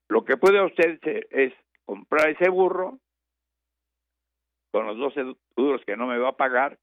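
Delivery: mock the farmer's stupidity; mocking retort. Teacher sneering at the stingy farmer, high and sarcastic.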